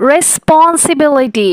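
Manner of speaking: রেসপন্সিবিলিটি said slowly, six parts; syllables drawn out. Shown as a demonstration. Teacher counting six syllables, slow. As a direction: stretch রেসপন্সিবিলিটি out. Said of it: "এটা হচ্ছে six syllable".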